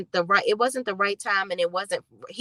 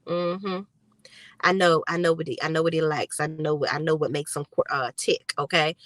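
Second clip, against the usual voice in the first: lowered voice, a touch of gloating; smug Fatima; 5 semitones lower than usual. Retold or imitated. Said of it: "Fatima is showing".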